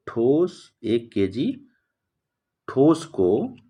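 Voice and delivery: word by word with long pauses; slow dictation. Real, not acted. Teacher dictating a definition to students, slow dictation. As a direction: dictate slowly, leaving time to write.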